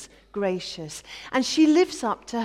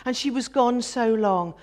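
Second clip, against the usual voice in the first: normal talking voice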